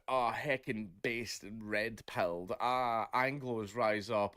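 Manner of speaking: slow, drawn-out mock voice of a Twitter poster; mocking online nationalist. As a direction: sneer out the slogans like a smug online troll. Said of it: "they were going".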